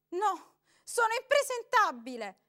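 frightened woman refusing; pleading. A narrator's reading. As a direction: beg him.

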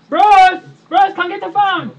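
loud call across the house, mock. Wife calling her husband Bruce to the phone, loud call.

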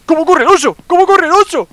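high, loud excited yell at the bear; excited shout. Real, not acted. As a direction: shout it out, thrilled. Jugador grita emocionado al oso. (grito emocionado y agudo)

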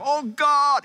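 high, loud cry to God; mock yell. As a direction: call out as if God is far away. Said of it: "They yell".

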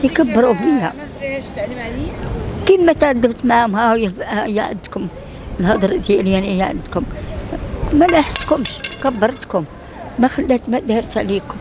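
high, tearful scolding; angry crying. Real, not acted. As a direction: scold through tears. Woman crying about ungrateful children.

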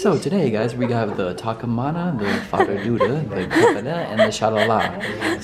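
lightly mimicked waiter announcing nonsense dishes, laughing; playful mock menu announcement with laughter; waiter reciting the menu. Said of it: "it sounds like this".

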